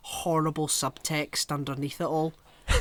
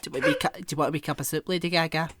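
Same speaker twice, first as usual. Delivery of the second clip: lightly voiced Scottish soup lady; Scottish woman; much faster than usual. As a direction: offer it with a touch of Scottish. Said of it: "given out by some strange Scottish woman".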